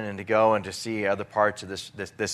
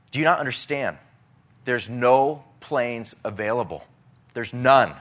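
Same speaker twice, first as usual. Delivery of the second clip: exasperated; 3 semitones higher, 4 dB louder than usual. Retold or imitated. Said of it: "the person on the other side of the radio saying".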